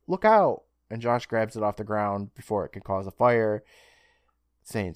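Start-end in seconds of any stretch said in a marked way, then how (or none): 0.1-0.6 high, loud imitated shout; retold warning yell. Host voicing Cleo as the torch drops, warning yell. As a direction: call it out sharply as a mock alarm. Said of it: "Cleo yells out".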